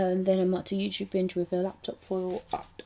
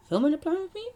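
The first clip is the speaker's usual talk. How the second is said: emphatic correction; 10 semitones higher, 5 dB louder, faster than usual. Real, not acted. Self-correction, emphatic second take.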